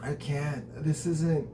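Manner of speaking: voicing a heartbroken girl over her fallen date, softly tearful. Hushed, halting, a hint of tears. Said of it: "cradling him and crying".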